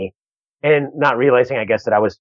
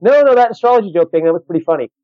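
quoted lady; 4 semitones higher, 3 dB louder than usual. Retold or imitated. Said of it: "You know".

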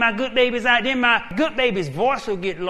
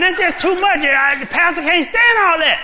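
high, loud pleading; worn-out husband begging his wife, loud and high; panicked protest; 6 semitones higher, 7 dB louder than usual. Acted. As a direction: cry out that it's too much.

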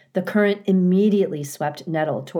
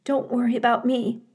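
growled; 7 semitones higher, faster than usual. Acted. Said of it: "Mother Bear growled".

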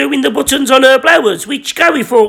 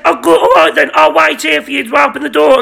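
calling back; 4 semitones higher, faster than usual. Acted. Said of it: "And she said".

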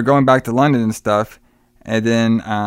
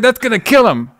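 high-pitched mock alarm; alarmed objection; 11 semitones higher, 4 dB louder than usual. Retelling a character objecting to the overdose, high mock alarm. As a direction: object in a raised, much higher voice.

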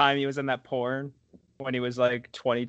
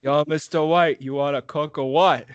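Jesse Pinkman impression. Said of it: "Very close to Sylvester St".

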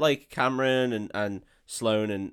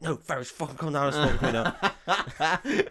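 mock headmaster; 4 semitones higher than usual. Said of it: "just like".

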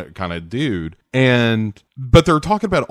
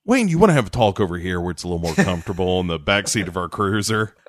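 mock friendly cop; 4 semitones lower, faster than usual. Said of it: "is like".

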